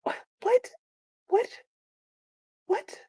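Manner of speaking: high, stunned what, what; shocked what. Real, not acted. Reader reacting to the villain's threat, stunned disbelief.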